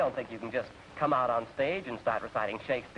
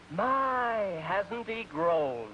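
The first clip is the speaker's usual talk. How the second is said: mock gushing fan; 4 semitones higher, much slower than usual. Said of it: "You're gonna say".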